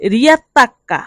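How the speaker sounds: very slow, careful Italian; deliberate teacher's dictation pace; slow model phrase. Shown as a demonstration. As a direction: spell each syllable out for learners. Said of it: "teacher models Italian word slowly".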